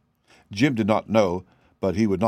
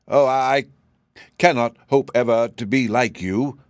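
sighing; 3 semitones higher, 4 dB louder than usual. Acted. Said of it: "sighed the sawhorse".

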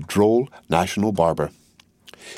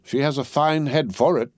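a light croak, pitched up; mild croak; 7 semitones higher than usual. Acted. Jacques three to Madame Defarge, a mild croak. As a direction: croak it with cruel relish. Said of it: "croaked Jacques three".

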